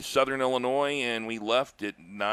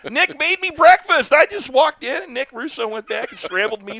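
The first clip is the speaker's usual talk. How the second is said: much higher, louder, laughing out the words; laughing through words; 14 semitones higher, 9 dB louder than usual. Real, not acted. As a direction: still laughing as you tell it. Laughing while finishing the story.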